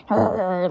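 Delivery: imitated dog growl; dog snarl. Imitating a dog having its nails done, snarling growl. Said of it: "the dog's like".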